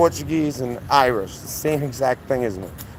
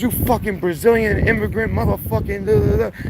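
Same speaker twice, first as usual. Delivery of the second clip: high mock rant dissolving into nonsense syllables; flipping out; 8 semitones higher than usual. Road-rage driver insulting the narrator, imitated flipping out. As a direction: imitate a ranting driver, pitch climbing at the end. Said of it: "He starts flipping the fuck out".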